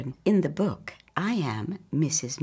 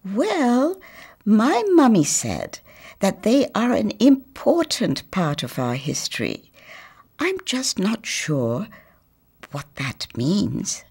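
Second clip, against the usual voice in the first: put-on high girl's voice, slowing at the end; lightly voiced girl, thinking it over; thoughtful girl; 5 semitones higher than usual. Girl answering the boy, high then thoughtful. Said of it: "she added thoughtfully".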